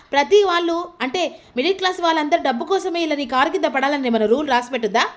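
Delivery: voicing the heroine's indignant rant; mock angry heroine, pitch jumping up on peaks; angry scolding. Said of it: "అని లక్ష్మి మాట్లాడుతూ ఉంటుంది".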